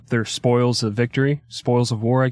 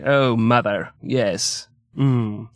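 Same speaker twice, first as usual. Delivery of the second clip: prim English lover; much slower than usual. Retold or imitated.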